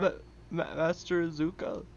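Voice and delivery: hesitant goon voice; dim henchman. Pretend. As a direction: stammer like a dim soldier. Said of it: "your biggest goon voice".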